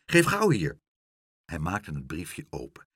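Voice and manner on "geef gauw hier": high, loud call; eager call. A narrator's reading. Pluck demanding the letter from the pigeon, eager call. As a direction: call out urgently for it. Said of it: "riep Pluck".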